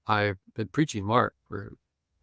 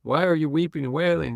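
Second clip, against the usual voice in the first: higher, firm question to the mourners; Jesus questioning; 7 semitones higher, 5 dB louder than usual. Retold or imitated. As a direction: ask the mourners why they wail. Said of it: "And he".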